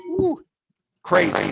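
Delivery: high, delighted woo; high whooping laugh-cry of disbelief; excited whoop. Real, not acted. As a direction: whoop at how crazy it was. Marvels at own past antics.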